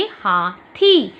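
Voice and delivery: very slow recap of the word; slow spoken model. Shown as a demonstration. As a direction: draw the word out for the class. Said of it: "तो आप था में ई की मात्रा लगाएंगे". (धीरे-धीरे दोहराया गया शब्द)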